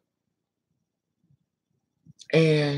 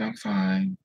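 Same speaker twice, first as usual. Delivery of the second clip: higher retold "I'm fine"; imitated upset reassurance, pitched up; crying denial; 4 semitones higher than usual. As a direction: act a mild tearful cover-up. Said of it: "And I'm crying".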